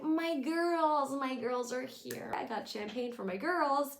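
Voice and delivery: mock proud hostess; imitating Emily. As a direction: gush over the girls like a doting mother. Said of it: "So Emily's like".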